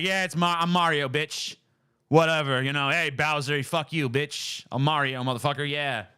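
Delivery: lightly mocked careless everyday delivery; Chris Pratt. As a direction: imitate an actor tossing off the role without trying. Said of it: "doesn't even fucking try".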